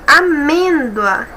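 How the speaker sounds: a-MÊN-doa, slow with MÊN stretched; stress on penultimate. Shown as a demonstration. Teacher proving the tonic syllable in amêndoa, stress on penultimate. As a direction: lean slowly on MÊN in amêndoa. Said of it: "sílaba tônica é a penúltima".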